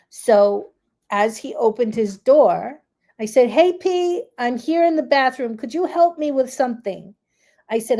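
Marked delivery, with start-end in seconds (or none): 3.5-7.1 high call across the house. Real, not acted. Mother calling her son from the bathroom, raised voice. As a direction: call him over from another room.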